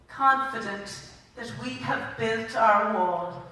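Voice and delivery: slow, measured poem reading; poem recitation. Acted. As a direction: read the poem to the hall with care. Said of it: "I'm going to read this poem by Seamus Heaney".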